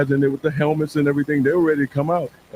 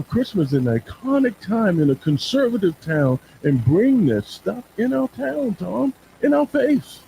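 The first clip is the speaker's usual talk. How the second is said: indignant. Acted. Voices outrage at the show.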